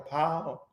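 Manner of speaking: "Power" clipped to one syllable, pow. Shown as a demonstration. Man correcting the host on the spelling, "Power" as pow. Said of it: "P O W apostrophe R".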